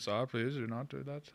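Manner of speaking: slow, high, soft put-on Dallas accent; mock Plano dialect. Man joking about Dallas-area locals, Plano accent. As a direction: imitate the Plano accent, pleading slowly. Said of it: "Plano dialect".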